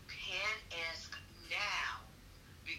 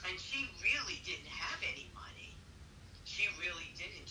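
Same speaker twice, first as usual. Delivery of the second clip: choking while eating. Real, not acted. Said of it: "I'm choking while I'm eating".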